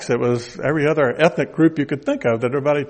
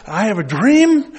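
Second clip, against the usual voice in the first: Martin Luther King; 5 semitones higher than usual. Retold or imitated. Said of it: "as Martin Luther King said".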